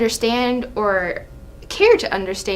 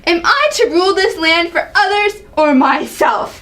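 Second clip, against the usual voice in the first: indignant, pitched up in outrage; angry king; 6 semitones higher than usual. Acted. King berating his son, outraged. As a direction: bristle at being told how to rule. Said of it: "Seeing the angry side of her".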